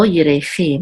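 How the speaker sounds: "yirechi" stressed on the final syllable chi. Shown as a demonstration. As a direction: land on "chi" at the end of "yirechi". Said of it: "accent is on the last syllable".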